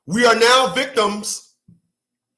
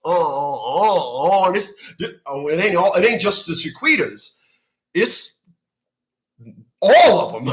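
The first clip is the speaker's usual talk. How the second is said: mock whimper; 4 semitones lower than usual. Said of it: "sitting up in the cut like".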